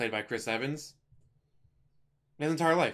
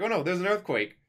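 higher-pitched fake panic; old man feigning alarm; 7 semitones higher, 4 dB louder than usual. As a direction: cry out in pretend alarm. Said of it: "it's a cute old man thing to do".

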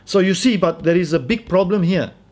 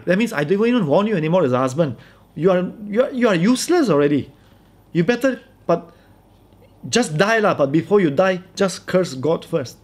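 lightly voiced exasperated wife, higher pitch; scornful wife; 4 semitones higher than usual. Wife gives up on her useless husband, dismissive. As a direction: play the fed-up wife dismissing him.

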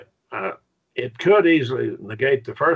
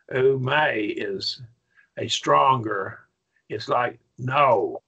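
slow and emphatic; much slower than usual. Shown as a demonstration. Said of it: "it's really emphatically no".

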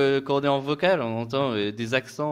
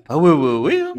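excited yes; 2 semitones higher, 9 dB louder than usual. Retold or imitated. Retold eager reply.

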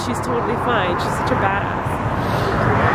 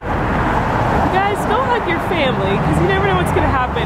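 choked, tearful plea, higher; real crying; 5 semitones higher than usual. Real, not acted. After sister's crash, telling viewers: tearful plea. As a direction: near tears, begging viewers to hug family. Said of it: "I'm, like, crying".

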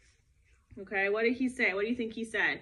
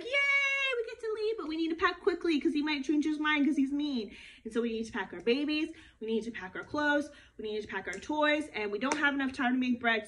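excited people. Acted. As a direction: cheer like freed children, then hurry. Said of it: "all the Jewish people were like".

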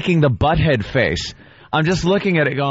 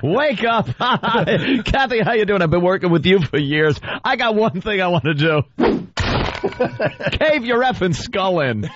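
mock Eric voice; 4 semitones higher than usual. Voicing Eric threatening Kathy.

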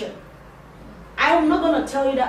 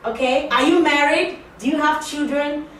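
nosy questions; 4 semitones higher, 4 dB louder than usual. Retold or imitated. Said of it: "no one asked".

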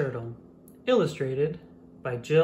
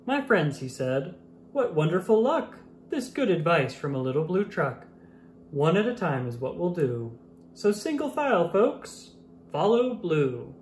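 speechifying mayor; 2 semitones higher than usual. Acted. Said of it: "gave a speech, the way mayors do".

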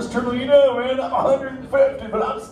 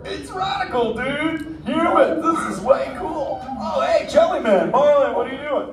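put-on extreme kids ad; 5 semitones higher than usual. Stoked surfer turtle shouting.

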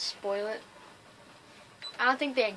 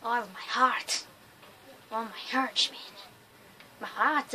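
attempted German accent. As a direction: have a bad go at a German accent. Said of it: "Can't do a German accent".

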